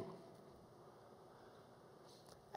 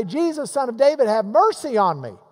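a raised, mildly pleading call; retold crying out; 5 semitones higher, 4 dB louder than usual. Blind beggar calling to Jesus as he passes, crying out. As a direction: call out higher, like a beggar in a crowd. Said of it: "he began to cry out and say".

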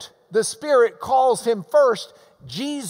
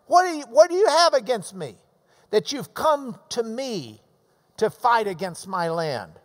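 combative challenge. Retold or imitated. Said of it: "This is combat talk".

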